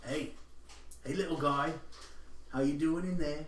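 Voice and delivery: speaking Goblin. Acted. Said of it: "Speak in Goblin".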